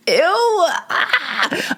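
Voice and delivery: cringe. Real, not acted. Cringes at own confession.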